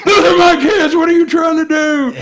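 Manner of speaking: loud, high, outraged yell; going crazy. Retold or imitated. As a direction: re-enact a parent blowing up at a stranger. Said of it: "I just went crazy on the guy".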